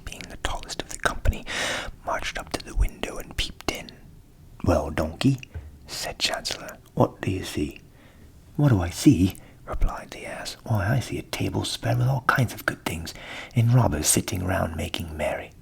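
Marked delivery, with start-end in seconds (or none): 4.6-7.8 the cat asking eagerly; curious cat. A narrator's reading. Cat asks. 8.6-15.5 the ass, cheerful and louder; jolly donkey offering a plan; hearty donkey. A narrator's reading. Ass reports feast.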